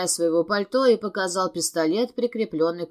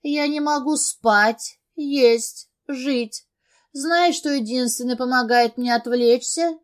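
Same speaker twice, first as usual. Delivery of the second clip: desperate crying; 6 semitones higher, slower than usual. A narrator's reading. Addict breaking down, crying.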